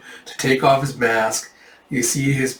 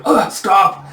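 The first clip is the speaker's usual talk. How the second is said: high, loud acted cry; alarmed yelp; panicked plea; 7 semitones higher, 5 dB louder than usual. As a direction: beg the attacker to stop. Bandit facing the dragon.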